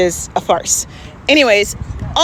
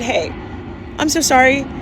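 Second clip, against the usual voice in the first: put-on sweet apology to a kid; 4 semitones higher than usual.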